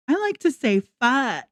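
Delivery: lightly voiced, sweet, unnatural cussing; a hint of a prim starlet saying fuck; mock Miranda Cosgrove. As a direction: say it too sweetly. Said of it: "Miranda Cosgrove".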